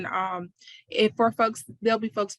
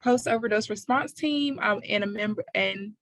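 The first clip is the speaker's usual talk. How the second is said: cotton mouth. Real, not acted. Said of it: "cotton in my mouth this morning".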